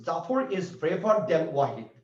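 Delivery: slow and deliberate, word by word; slow dictation. Shown as a demonstration. Teacher reading the example sentence to students, slow and deliberate. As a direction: spell the sentence out slowly for the class. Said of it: "তা সেন্টেন্সটা দেখো".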